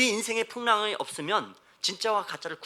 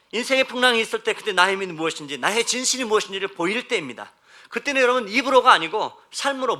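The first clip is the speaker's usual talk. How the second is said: louder, emphatic sermon delivery; impassioned preaching; 5 semitones higher, 8 dB louder than usual. Acted. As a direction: press each point home to the congregation. Preaches with rising force. (힘주어 외치는 설교조)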